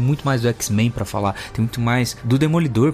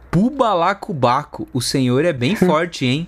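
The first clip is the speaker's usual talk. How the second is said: goofy demo line; slower than usual. Shown as a demonstration. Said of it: "Fala, fala assim, grava essa frase assim".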